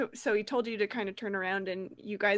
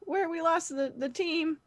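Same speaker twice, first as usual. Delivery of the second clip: put-on higher-pitched, unsure boy voice; hesitant young guide; 6 semitones higher than usual. Roger guiding the team back, hesitant high voice. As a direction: fumble for directions in a squeaky little voice.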